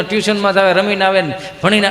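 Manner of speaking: normal talking voice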